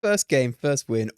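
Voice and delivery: loud, punchy victory call; excited boast. Real, not acted. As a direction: shout the first win out proudly. Celebrating first win.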